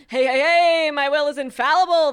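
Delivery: very loud, booming radio shock jock bluster. Joking with a co-speaker, showing off a shock jock voice. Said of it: "This is my shock jock voice".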